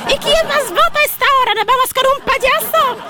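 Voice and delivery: silly clown. Acted. Host playful high voice.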